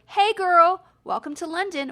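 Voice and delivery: high, loud, chirpy put-on British greeting from the birds; a playful fake British accent; mock British accent. Birds greeting the American mum in mock British accent. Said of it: "Don't make fun of my accent".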